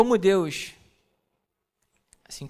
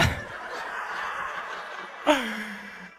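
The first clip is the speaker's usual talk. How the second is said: silent, breathy laugh; 5 semitones higher than usual. Real, not acted. Pastor laughing at the memory of the news, breathy. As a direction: let a voiceless laugh escape.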